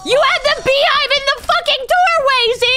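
hammed-up blame thrown at Z; mock outrage. Yelling at Z over beehive.

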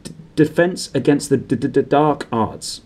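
reluctant to say it, stammer; stammering mutter. Acted. Quirrell naming his subject, reluctant stammer. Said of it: "muttered Professor Quirrell".

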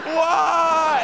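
loud, high mock wail; hammed-up anguished cry. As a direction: wail it like a cheesy movie hero. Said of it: "And I'm like".

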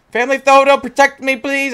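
high, loud mock prayer to an item; mock plea. Gamer jokingly begs the family photo to protect him: high mock plea.

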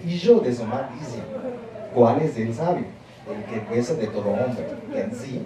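slow, deliberate Ladino text reading. Shown as a demonstration. Teacher reading Pirkei Avot for pronunciation, slow Ladino reading. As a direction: read the old text out word by word.

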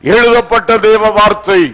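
ringing, declamatory sermon delivery; forceful preaching. Real, not acted. Urging believers to look to Jesus, forceful preaching. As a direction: exhort the congregation in emphatic phrases.

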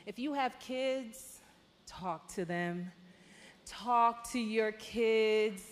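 slow, earnest exhortation to parents; a sermon-style plea, deliberate and firm; preaching appeal. Acted. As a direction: press the point home like a preacher. Urges parents to talk to kids.

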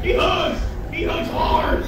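excited yelp. Real, not acted. Creature hugs player back.

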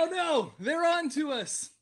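high-pitched hammed-up alarm; mock panic. Game master voices Polya fearing the agents, mock panic. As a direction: play a crook who's been found out.

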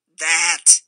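loud scoffing bark of a word; dismissive grunt. A narrator's reading. Rufus waves off the smoke with a loud grunt. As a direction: grunt it out, unimpressed. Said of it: "the grunt with which one question answered another".

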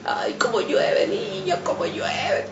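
stretched-out, high-pitched wail reliving the panic; retold cry of alarm. Mother crying out to children as the boiler hisses, retold alarm. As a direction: cry it out long and high, imitating yourself in alarm. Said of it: "Yo me hacía así, decía".

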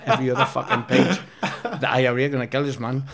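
words spoken through laughter; laughing. Real, not acted. Telling the interviewer about the papers, laughing as he talks. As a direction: chuckle through the punchline.

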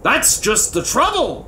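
high, forceful royal bellow; angry king cutting in. A narrator's reading. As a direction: bellow it in frustration. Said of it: "bellowed the king".

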